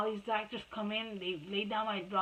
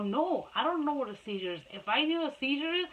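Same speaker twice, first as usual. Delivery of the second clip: retold quarrel, pitch climbing as it goes; indignant comeback; 5 semitones higher than usual. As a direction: argue back, increasingly exasperated. Mother snaps back in retold quarrel.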